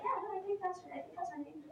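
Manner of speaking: mock-nervous, unconvincing assurance; nervous bluffing. Bluffing after blurting a wrong name.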